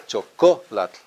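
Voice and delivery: chocolate as cho, KO, latl, with KO punched; syllable by syllable. Shown as a demonstration. Teacher showing where syllables fall, syllable by syllable. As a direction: break chocolate up and hit the CO. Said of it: "the T L is always part of a syllable".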